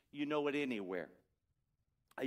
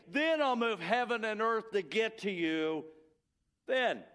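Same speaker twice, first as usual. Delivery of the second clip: building preacher's cadence. Acted. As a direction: preach it, rising line by line. Preacher builds God's promises.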